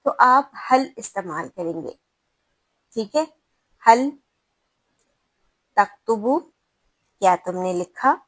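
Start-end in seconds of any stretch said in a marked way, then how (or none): 3.8-8.1 calm asking. Shown as a demonstration. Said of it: "آپ کسی طالب علم سے آرام سے پوچھ رہے ہیں".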